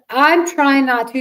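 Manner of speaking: choking back a sob as she speaks; holding back tears. Real, not acted. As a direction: voice near breaking with real emotion. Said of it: "Don't cry".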